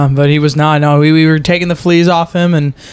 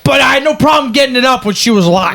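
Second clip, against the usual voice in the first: mock shout; 6 semitones higher than usual. Joke shouted line.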